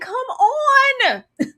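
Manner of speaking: high, drawn-out whine; high-pitched begging cry; exasperated plea. Retold or imitated. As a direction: wail it at a losing favorite. Retold exasperated plea to Dunk.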